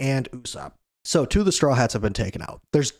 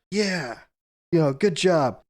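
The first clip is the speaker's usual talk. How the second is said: lightly acted cheer, pitched higher; mild cheering; 5 semitones higher than usual. Usopp cheering on a crewmate, mild mock cheer. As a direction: cheer someone on, without shouting. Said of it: "Usopp's cheering on".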